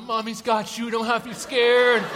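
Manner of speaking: lightly voiced toddler self-talk; a hint of a little girl's voice.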